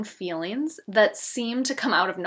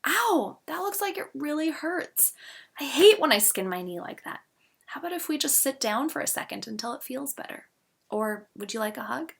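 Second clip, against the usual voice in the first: put-on sympathetic comfort to a hurt child, softer on the later lines; tender reassuring parent; gentle, soothing parent; 4 semitones higher, 3 dB quieter than usual. Shown as a demonstration. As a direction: soothe a child who skinned a knee. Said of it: "more useful to say something like".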